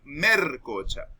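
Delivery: "mercocha" slowly, with an R in place of the L; slow "mercocha" with an R sound; montuvio R for L. Shown as a demonstration. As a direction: say "mercocha", swapping the L for R. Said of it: "en vez de decir melcocha".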